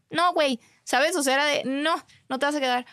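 telling the ex he won't stay, emphatic no; firm refusal. Retold or imitated. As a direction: shut him down emphatically. Refusing to let him stay.

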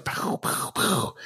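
soft, whooshed "pow" for each card; quick puffed sound effect; imitated card drops. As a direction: mimic cards landing with airy little pows. Imitates cards being dropped.

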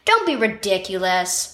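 mildly impatient big brother. Acted. Older brother dismissing little brother's fear, impatient. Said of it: "said Keegan impatiently".

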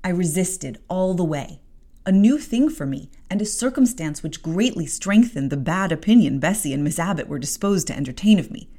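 measured storybook reading; story narration. A narrator's reading. Podcast host reading Jane Eyre aloud, narration. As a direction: read it like an audiobook chapter.

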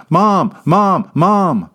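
put-on high, loud little girl calling Mom; crying child calling. A narrator's reading. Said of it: "Allie cries louder".

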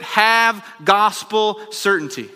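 slow, loud "have gospel certainty" at the peak; preacher's climax on "have gospel certainty"; loud proclamation. Real, not acted.

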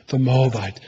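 "the Moabite" spoken softly as a loving commitment; tender. Shown as a demonstration. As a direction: say "the Moabite" gently, with devotion. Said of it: "No, he's saying".

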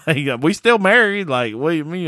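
a touch of exasperated disbelief; indignant. Retold or imitated. Retold indignant protest.

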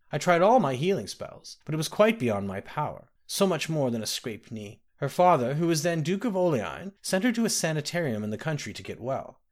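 a hint of a kindly old woman; old nursemaid. Ramke voiced old nursemaid.

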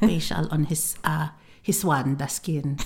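breathy aside; whisper. Real, not acted. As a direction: whisper it to the listener. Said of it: "whispered aside".

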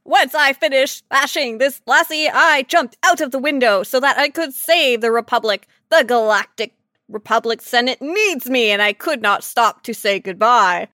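lightly voiced heroic droid; hammed-up robot boast; mock robot voice. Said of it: "the booming vocoder".

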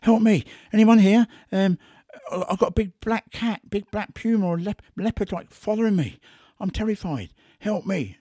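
high, loud panicked cry for help; shouting for help, scared of the big cat in the woods; retold shout for help. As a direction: call out for help as if terrified in the woods. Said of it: "she shouted out at the top of her voice".

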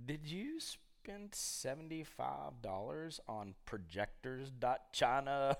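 quiet, very drawn-out accusation; slow incredulous questioning. Retold or imitated. Husband querying wife over the bank statement, slow and incredulous. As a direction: spell it out slowly in mock disbelief.

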